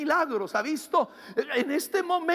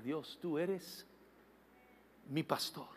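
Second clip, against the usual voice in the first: modeled prayer declaration; 2 semitones lower than usual. Shown as a demonstration. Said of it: "Cuando tú empiezas a declarar".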